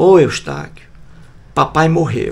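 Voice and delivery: mock grieving, sad, sorrowful tone. Retelling what a man's daughter said to the speaker, imitating a sad voice. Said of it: "a Edna triste me disse".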